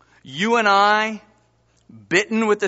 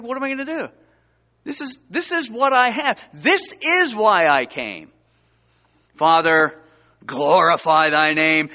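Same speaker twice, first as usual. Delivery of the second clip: voicing Jesus. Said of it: "He's like".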